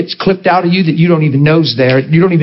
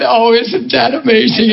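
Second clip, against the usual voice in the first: higher, amused awe; mock amazement; 6 semitones higher than usual. Preacher acting out himself listening to an accented girl, amazed. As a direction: play the enchanted listener. Acts out his rapt listening.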